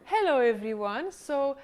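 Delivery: sing-song hello, stretched out; bouncy, hammed-up hello; playful demo greeting. Shown as a demonstration. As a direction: show her how to sound playful. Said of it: "I want you to sound silly".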